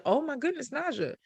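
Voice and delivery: high, hushed awe; awed. Retold or imitated. Talking to herself on arrival, softly amazed. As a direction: whisper it to yourself in wonder. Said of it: "And I said".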